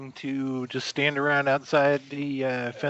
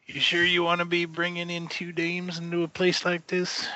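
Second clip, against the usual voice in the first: bar regular voice; 4 semitones higher than usual. Acted. GM voices a wary bar patron.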